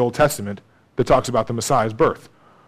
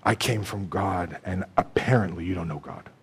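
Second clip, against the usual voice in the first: quiet, pointed rebuke; 8 semitones lower, 11 dB quieter than usual. Retold or imitated. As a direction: let the rebuke land quietly and gravely. Jesus' pointed reply, much lower.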